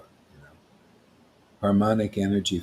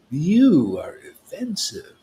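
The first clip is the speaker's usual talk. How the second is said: stern rebuke; 6 semitones higher, 4 dB louder, slower than usual. Retold or imitated. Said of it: "he just smashed that poet".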